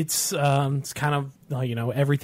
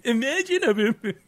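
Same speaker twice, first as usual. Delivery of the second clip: dramatic narrator voice; 10 semitones higher, slower than usual. Retold or imitated. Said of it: "He's like".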